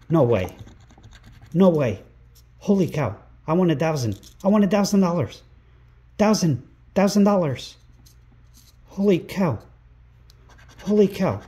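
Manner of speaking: loud, high, disbelieving shouts of a big win; real excited shouting. Real, not acted. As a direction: yell it out, stunned at winning a thousand dollars. Wins a thousand dollar scratch prize.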